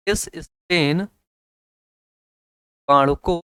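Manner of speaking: S strain जीवाणु को stretched slowly, each word drawn out; slow dictation of S strain जीवाणु को. Shown as a demonstration. Teacher repeats phrase, second slower.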